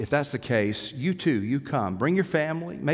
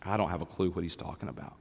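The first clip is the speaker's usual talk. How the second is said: clueless mumble; 6 semitones lower, 7 dB quieter than usual. Retold or imitated. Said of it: "or do you go".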